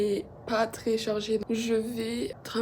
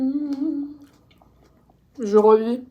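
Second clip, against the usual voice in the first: delighted moan; 4 semitones higher, 10 dB louder, much slower than usual. Real, not acted. Savouring food.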